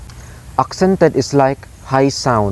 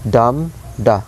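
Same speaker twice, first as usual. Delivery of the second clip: "dum, da" with stressed DUM, weak DA; strong-then-weak "dum, da"; trochaic beat. Shown as a demonstration. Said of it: "high stress sound".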